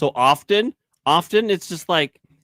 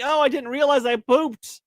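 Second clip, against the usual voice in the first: put-on innocent baby voice; 11 semitones higher than usual. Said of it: "you're like".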